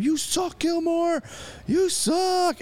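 imitated high-pitched heckling yell; mock a screaming fan without real volume; high, strained mock scream from the stands; retold heckler scream. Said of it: "just screaming".

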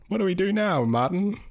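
high, lost and helpless; helpless whine. Retold or imitated. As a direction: whine it like a damsel. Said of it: "it's all gone".

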